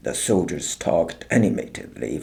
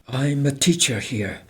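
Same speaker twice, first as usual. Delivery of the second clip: reply; 6 semitones higher than usual. A narrator's reading. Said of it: "Helen replied".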